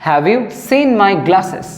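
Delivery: very slow, each word set apart; slow teaching read. Shown as a demonstration. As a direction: say it slowly for the class. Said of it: "তখন simply বলো".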